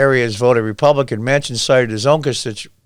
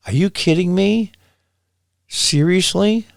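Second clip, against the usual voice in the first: high, slow, disbelieving seriously; incredulous disbelief; 7 semitones higher than usual. Real, not acted. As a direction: pitch jumps up, drawn-out seriously. Incredulous reaction to quoted claim.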